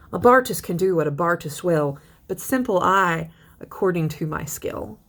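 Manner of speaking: measured verse recitation, slowing on key lines; teacher reading a poem to the class. Acted. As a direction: read the stanza like verse, not chat. Reads Bradstreet poem aloud.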